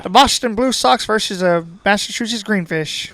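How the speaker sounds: put-on old school baseball announcer voice; home run call. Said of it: "old school baseball announcer voice".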